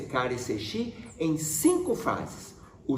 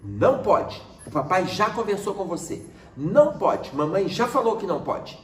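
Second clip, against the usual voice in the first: stern reprimand. Shown as a demonstration. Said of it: "muda a expressão facial".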